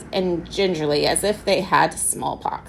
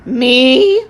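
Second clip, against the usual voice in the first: loud, higher indignant roar; 6 semitones higher, 10 dB louder than usual. A narrator's reading. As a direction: bellow it in outrage. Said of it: "roared Mister Peterkin".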